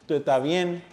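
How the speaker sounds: softened S in tú ehtá bien; S as H in estás. Shown as a demonstration. Teacher repeating for practice, S as H in estás. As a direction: let estás lose its S to an H. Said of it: "Notice the S shifting to H".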